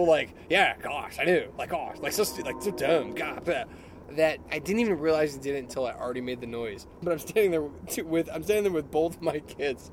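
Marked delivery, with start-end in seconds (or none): 0.5-3.6 mocking teen chatter. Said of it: "their tones were so".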